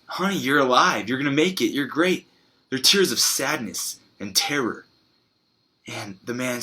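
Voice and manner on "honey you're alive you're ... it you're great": higher-pitched, lightly acted joy; mildly elated retold cheer; joyful relief. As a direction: celebrate a loved one pulling through. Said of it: "tears of joy like".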